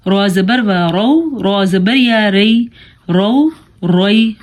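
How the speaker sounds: رو full and thick, "rau"; heavy R. Shown as a demonstration. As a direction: round out a heavy R in رو، روئی. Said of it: "دونوں رو پر". (موٹا رو)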